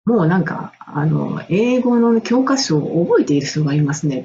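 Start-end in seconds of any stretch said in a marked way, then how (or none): 1.5-4.2 teacher's remark. Retold or imitated. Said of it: "って言われたんです".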